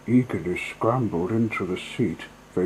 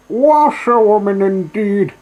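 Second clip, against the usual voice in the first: loud, much higher boastful Toad cry; reckless shout; 12 semitones higher, 12 dB louder than usual. Acted. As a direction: throw it out wildly like a mad braggart. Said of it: "he shouted recklessly".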